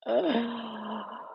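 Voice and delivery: long, soft sigh before answering; thoughtful sigh. Real, not acted. Asked to describe her soul, a long thoughtful sigh. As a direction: let out a slow sigh while pondering.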